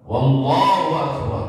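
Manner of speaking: Wallahu said slowly with a clear initial w; added waw in front. Shown as a demonstration. Teacher demonstrates the wrongly added wawu. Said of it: "menambahkan wawu di depan".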